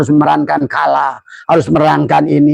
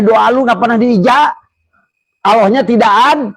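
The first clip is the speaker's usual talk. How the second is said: voice of God; 9 semitones higher than usual. Acted. Preacher voices Allah's slangy reply.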